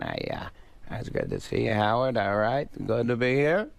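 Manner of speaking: lightly voiced, understated mumbling comic; a hint of the comic's laid-back talk; Adam Sandler. Greeting a radio host, understated comic impression. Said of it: "three phases of Adam Sandler".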